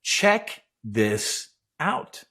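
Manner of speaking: lightly voiced God, words drawn out slowly; God presenting creation. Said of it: "like God was saying".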